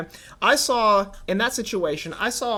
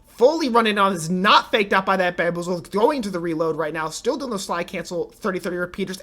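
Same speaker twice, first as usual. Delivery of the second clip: esports caster; 4 dB louder than usual. Acted. Live play-by-play of match.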